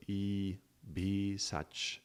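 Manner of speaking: "B" as long "bee" before "Sach"; Sanskrit pronunciation. Shown as a demonstration. Teacher showing Sanskrit vowels, "B" as long "bee". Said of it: "Sanskrit way".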